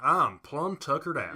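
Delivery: slow hick Southern drawl; mock country Southern accent; stereotypical Southern. Teasing co-host about stereotypes, slow Southern drawl. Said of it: "you don't wanna be a guy that says".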